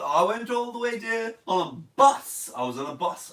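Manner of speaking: put-on a shaky try at a London accent; a lightly voiced London accent; attempted London accent. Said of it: "I don't even know if that's an London accent".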